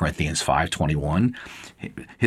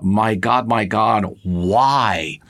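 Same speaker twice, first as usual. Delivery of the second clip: mild retold outcry, only a little raised; retold anguished cry; 2 semitones higher, much slower than usual. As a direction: cry out the quote with restraint. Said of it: "Jesus cries out".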